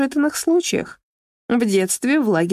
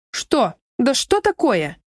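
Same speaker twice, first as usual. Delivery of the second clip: взвизг; slower than usual. Acted. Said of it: "Взвизгнула Альбина".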